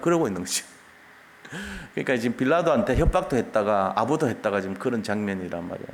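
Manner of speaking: usual speaking voice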